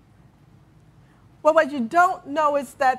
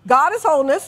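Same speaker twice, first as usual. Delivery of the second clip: louder, call to repeat together; leading affirmation aloud; 4 semitones higher, 6 dB louder than usual. Shown as a demonstration. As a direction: lead the congregation loudly. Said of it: "I'll say it. You say it with me".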